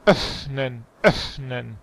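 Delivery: "Öffnen" with a long airy f. Shown as a demonstration. Teacher repeats it for the student, airy "Öffnen". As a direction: let the f in "Öffnen" blow before the nen. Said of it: "más aire".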